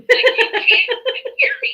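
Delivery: high, slow, laughing through it. Real, not acted. Daughter laughing at her mom's mishearing, high and slow. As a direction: insist while cracking up. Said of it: "laughing insistence".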